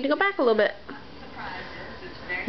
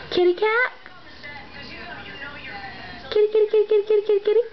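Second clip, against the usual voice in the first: calling the cat; 4 semitones higher, much faster than usual. Real, not acted.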